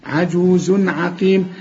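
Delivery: عجوز عقيم slow, nun shown before ain; clear tanween. Shown as a demonstration. Quran teacher to student: clear tanween before ain. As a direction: recite عجوز عقيم slowly, no ghunna. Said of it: "العين من حروف الإظهار".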